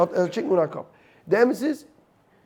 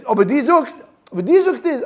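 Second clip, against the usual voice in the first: laughing; 6 semitones higher, 5 dB louder than usual. Real, not acted. Laughing while pressing point.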